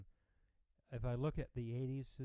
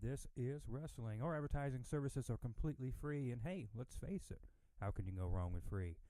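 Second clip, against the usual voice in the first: upbeat promo announcer read. Acted. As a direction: read it like a radio spot. Reads podcast ad.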